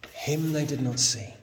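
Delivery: "Him" first and stressed. Shown as a demonstration. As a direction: open with a pressed "Him". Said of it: "a thing that Greek does to emphasize something".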